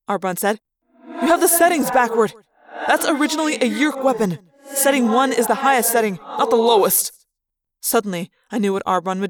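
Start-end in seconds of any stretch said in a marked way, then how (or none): 1.1-7.1 pressing, pitched-up correction; urgent warning. Acted. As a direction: insist on it before they fire. Creature urgently warns about weapon setting.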